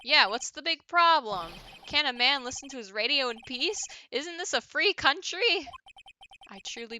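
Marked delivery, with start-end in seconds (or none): 0.0-5.7 a mild put-on regional accent, pushy; hint of a brash local twang, defensive. Witness Mister Butts defends his loud radio, put-on accent. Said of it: "What was that accent?".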